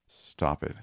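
whispering "Stop it" unvoiced, pleading; whispered plea. The girl begging the voice in her head, whispered. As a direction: breathe "Stop it" as a frightened plea. Terrified girl begs the monster.

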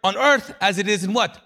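loud, insistent correction; emphatic Jesus. Acted. Jesus correcting the crowd about prayer, loud and emphatic. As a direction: preach it forcefully, voice lifted. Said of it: "but Jesus is like".

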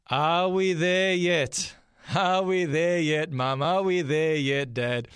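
put-on whiny kid asking from the back seat; pestering child. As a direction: needle the parents like a bored child. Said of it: "would ask their favourite question".

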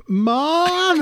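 put-on high child's call for mom; startled kid yelling for mom; girl calling Mom. GM voices girl calling inside.

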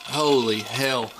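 strained after choking; catching breath after choking; recovering from choking. Real, not acted. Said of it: "trying to get in my lungs".

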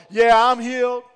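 loud happy claim; loud and convinced. Retold or imitated. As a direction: shout it like you're sure. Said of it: "You'll be talking real loud".

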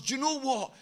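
normal talking voice

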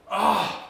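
sneezing. Real, not acted. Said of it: "creo que voy a estornudar".

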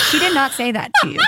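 incredulous giggle through the words; laughing at the absurd advice; laughing disbelief. Real, not acted. Incredulous at vet teeth advice.

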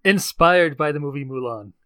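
now say it with full confidence; committed ad pitch. Pretend. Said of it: "You can't even commit".

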